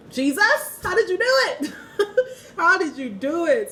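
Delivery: high, loud, laughing-crying plea; half-crying laugh. Real, not acted. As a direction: beg Jesus through laughter.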